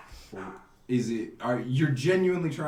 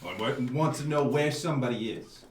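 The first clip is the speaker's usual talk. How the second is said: put-on Italian accent; 2 semitones lower than usual. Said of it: "I do one Italian accent".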